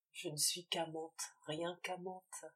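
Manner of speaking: a woman despising herself, softly; bitter murmur. Acted. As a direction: let the words sink quietly. Valentine's bitter self-reproach.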